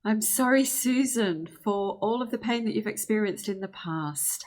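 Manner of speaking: heartfelt plea to your own body; sincere apology to self. Shown as a demonstration. Scene: Susan apologizes to her back, heartfelt and rising. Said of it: "you might say".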